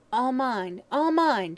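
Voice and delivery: high possessive cry, rising on the repeat; loud shriek. A narrator's reading. Dying hag clutching gold, shrieking. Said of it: "she shrieked loudly".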